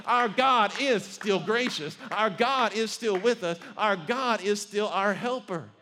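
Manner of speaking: loud, slow proclamation, stressing God; the three men defy the king, loud and slow; defiant declaration. Acted. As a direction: declare it boldly to the king's face.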